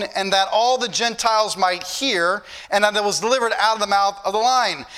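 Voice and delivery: preacher reading the verse out to the church; scripture reading. Acted. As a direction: lift the text, read it with weight.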